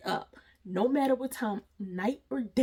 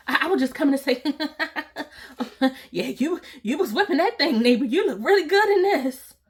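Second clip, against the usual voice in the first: creepy neighbor; 5 semitones higher, 6 dB louder than usual. Retold or imitated. Mimicking neighbor's creepy flattery.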